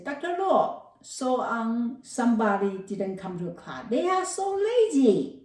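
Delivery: high, whiny telling-on voice; a student snitching on classmates, high and whiny; tattling student. Pretend. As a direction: tattle to the teacher in a high whine.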